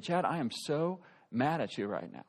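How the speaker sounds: low, tightly controlled mock anger; restrained imitation of a furious wife; imitating angry wife. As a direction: play her mad, without shouting. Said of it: "I'd never seen her mad like this".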